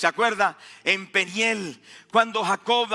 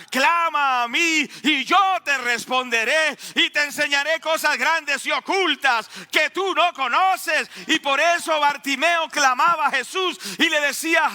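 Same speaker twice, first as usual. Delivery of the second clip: raised, urgent pulpit voice; impassioned preaching; 5 semitones higher than usual. Acted. Preacher urging people to cry out to God, fervent raised voice. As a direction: preach it fervently, pitched high.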